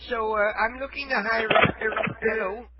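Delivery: a hint of a feeble old caller; frail shaky old whisper. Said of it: "Well, I'm old".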